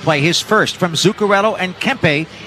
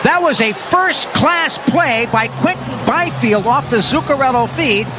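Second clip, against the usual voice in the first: excited recap; 6 semitones higher than usual. Real, not acted. Recapping the goal just scored.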